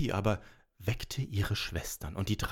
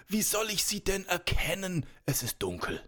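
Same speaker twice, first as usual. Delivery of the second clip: servant's voice; 9 semitones higher than usual. Acted. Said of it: "rief der Diener".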